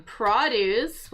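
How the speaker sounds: produce stressed on PRO, slowly; noun produce. Shown as a demonstration. Teacher repeating the noun produce slowly. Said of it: "instead I said".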